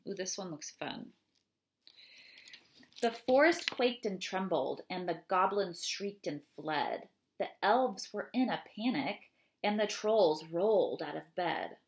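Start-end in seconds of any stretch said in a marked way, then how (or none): 3.0-11.8 expressive read-aloud of a rhyming poem. Acted. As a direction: read it to the children with lively rhythm. Reads ogre poem aloud.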